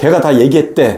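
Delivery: plain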